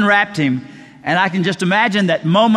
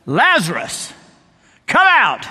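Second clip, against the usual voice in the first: preacher's ringing, commanding shout; yelled command; 4 semitones higher, slower than usual. Acted. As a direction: call him out with full authority. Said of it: "yelled out".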